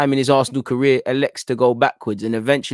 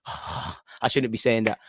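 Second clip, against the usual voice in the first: sighing, slow and much softer, half to himself; sheepish sigh; 4 semitones lower, 8 dB quieter, slower than usual. Real, not acted. Fan regretting urging a dive, sighing softly. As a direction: catch yourself and mutter the regret with a sigh.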